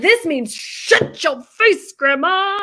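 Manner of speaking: high, slow, mock German teacher; deadpan it as a fake lesson; Sal impression. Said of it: "he's like".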